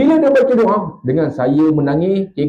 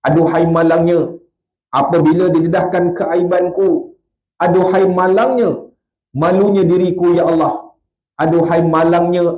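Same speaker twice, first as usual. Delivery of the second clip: mournful recited lament. Acted. Preacher recites a weeping man's lament, grieving. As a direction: lament it as a penitent.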